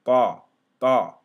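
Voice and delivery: Thaw, thaw said loud with a clear th; model pronunciation. Shown as a demonstration. Teacher drilling students, loud and clear. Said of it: "the way you're gonna pronounce".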